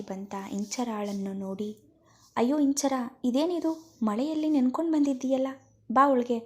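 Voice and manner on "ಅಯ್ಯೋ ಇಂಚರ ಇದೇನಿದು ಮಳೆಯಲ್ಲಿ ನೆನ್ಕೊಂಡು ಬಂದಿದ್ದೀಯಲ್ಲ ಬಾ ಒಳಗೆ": high, loud, fast alarmed exclamation; alarmed cry. Acted. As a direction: rush out the words in alarm at seeing her soaked. Friend arrives soaked in rain. (ಗಾಬರಿಯಿಂದ ಎತ್ತರದ ಧ್ವನಿಯಲ್ಲಿ ಕೂಗು)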